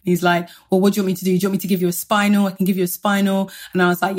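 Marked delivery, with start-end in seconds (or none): 0.7-3.5 rapid-fire flustered questions, lightly acted; panicking anaesthetist. Anaesthetist to patient at the head end, mildly imitated panic. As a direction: rattle off the offers in a mild panic. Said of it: "He's super panicking".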